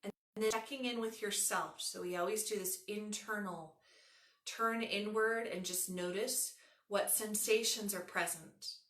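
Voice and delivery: unhurried yoga nidra guiding voice, long pauses; measured relaxation instructions with room to breathe; guided meditation. Acted.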